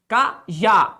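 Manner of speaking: "cajá" split, with a long final JÁ; stress on JÁ. Shown as a demonstration. Teacher showing the tonic syllable, stressed JÁ in "cajá". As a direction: separate "cajá" and hold the last syllable. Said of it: "A sílaba tônica é o quê?".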